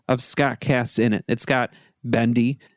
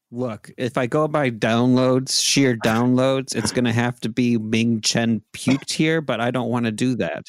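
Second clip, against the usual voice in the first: normal talking voice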